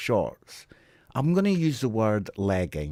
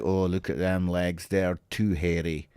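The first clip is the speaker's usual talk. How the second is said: mock vain self; 7 semitones lower than usual. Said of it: "I was never like".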